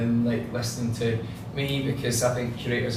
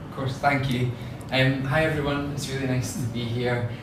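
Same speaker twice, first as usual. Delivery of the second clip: broad Scottish accent. Real, not acted. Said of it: "when you've got a super strong Scottish accent".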